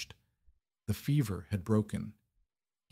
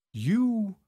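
strangled cry, much higher and louder; choked; 13 semitones higher, 4 dB louder than usual. Acted. Duke recognizing the commoner nurse, strangled higher cry. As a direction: choke the word out in shock. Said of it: "Arthur choked".

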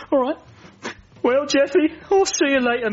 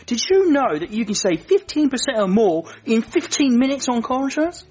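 insurance ad voice; 3 semitones higher than usual. Retold or imitated. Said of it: "my cousin in them commercials".

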